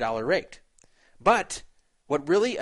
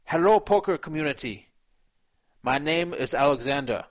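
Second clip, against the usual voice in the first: put-on Russian accent. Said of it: "I'll read this, uh, with his Russian accent".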